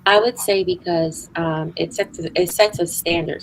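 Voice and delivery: words slurred by retainers; talking with retainers in. Real, not acted. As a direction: speak around a retainer. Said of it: "Sorry, I have my retainers in".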